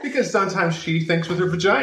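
laughing. Real, not acted. Joking, laughing.

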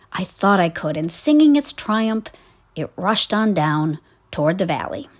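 put-on storytelling voice for children; story narration. A narrator's reading. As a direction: read it like a bedtime story. Reads a story aloud.

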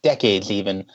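strained, choking while talking; choking on a nut. Real, not acted. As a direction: talk through choking on a nut. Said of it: "I'm choking on a nut".

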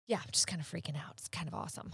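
hushed, breathy excited whisper. Real, not acted. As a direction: whisper it, barely contained thrill. Freaking out, hushed.

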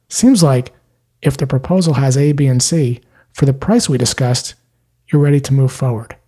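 steady, unhurried label; calm. Shown as a demonstration. Salesperson calmly labelling the prospect's readiness to buy. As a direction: say it calmly and evenly, no pressure. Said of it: "very calmly say this".

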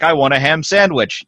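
a hint of Arnold on a plain sandwich line; lightly voiced Austrian bodybuilder; mock Arnold accent. Host jokes about what an Arnold impression needs, light Austrian accent. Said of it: "if they say".

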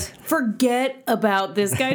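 lightly acted friend telling her off, drawn out; exasperated girlfriend. Voicing girlfriends' advice to her.

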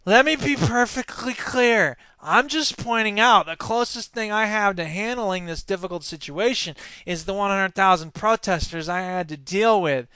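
whiny, sniveling politician impression; Scott Walker. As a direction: whine it like a put-upon weakling. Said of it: "I should do it like a whiny, sniveling guy".

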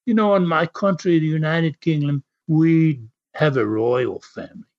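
lightly put-on English accent. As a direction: act out an English wrestler's promo, accent lightly done. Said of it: "while you were doing that accent".

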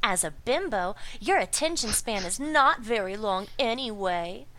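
a hint of a breathy ditzy hypnotist; bimbo voice. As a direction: coo it like a sweet airhead hypnotist. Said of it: "I'm totally doing a bimbo voice".

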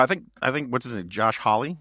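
ordinary talk, nothing marked

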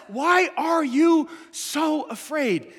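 very slow, fading to a hush; a tender rebuke, dying away; Jesus calmly questioning the disciples; slow, gentle Jesus. Retold or imitated. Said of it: "But Jesus still says".

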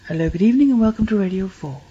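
measured Radio Four welcome; broadcast voice. Shown as a demonstration. Guest demonstrating for the host, broadcast voice. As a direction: open the show like a radio presenter. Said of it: "that's my broadcast voice".

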